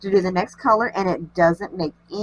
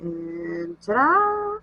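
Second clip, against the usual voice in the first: playful ta-da; much slower than usual. Real, not acted. Revealing the finished strand.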